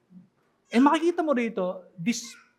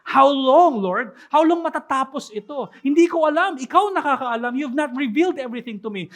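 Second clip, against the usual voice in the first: pleading cry; 2 semitones higher, 5 dB louder than usual. Retold or imitated. Voicing David's plea.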